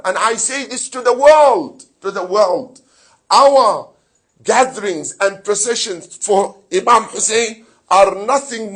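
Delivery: loud, declaiming sermon to the world; a preacher proclaiming his community's peaceful identity, loud and firm; full-force preaching. Acted.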